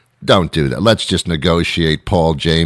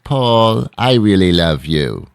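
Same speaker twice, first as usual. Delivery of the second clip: fond parent; 3 semitones higher than usual. Retold or imitated. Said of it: "never used unless you're in trouble".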